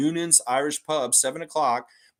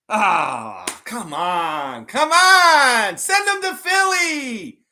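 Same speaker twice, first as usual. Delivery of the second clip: hammed-up whine building to a high shout; Random Gamer with Philly accent; 10 semitones higher, 8 dB louder, much slower than usual. Fan begging the front office for a trade, wailing mock Philly accent. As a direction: wail and beg as a silly Philly fan. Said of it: "do an impression of you with a strong Philly accent".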